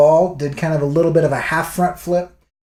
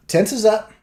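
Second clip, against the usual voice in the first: ordinary delivery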